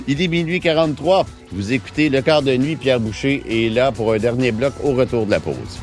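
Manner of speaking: radio announcer reading the station ID; smooth on-air read over the music; late night radio dj. Acted. Host reads station ID over music.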